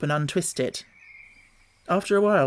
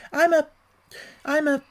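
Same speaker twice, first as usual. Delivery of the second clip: higher, earnest protest; lightly voiced young girl objecting; a hint of girlish Alice; 12 semitones higher, 3 dB louder than usual. A narrator's reading. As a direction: insist politely you're not a serpent. Alice stammering for an answer.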